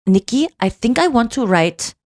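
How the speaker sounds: put-on a weak stab at an Austrian accent on the therapist's words; half-hearted Viennese English, admittedly not good; a loose Austrian accent, lightly attempted; bad Viennese accent. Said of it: "I'm not doing a good Viennese, uh, accent".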